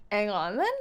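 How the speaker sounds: low, questioning "Ang on then"; "Hang" without H, rising on "then"; dropped H. Shown as a demonstration. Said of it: "British people just skip the first letter".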